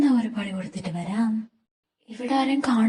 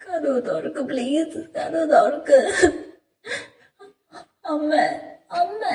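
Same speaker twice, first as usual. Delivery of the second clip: pleading; 2 semitones higher than usual. Acted. Locked in, pleading.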